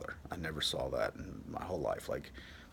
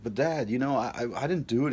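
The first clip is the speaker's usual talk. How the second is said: pleading son; 6 semitones higher, 6 dB louder than usual. Retold or imitated. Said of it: "I'm like".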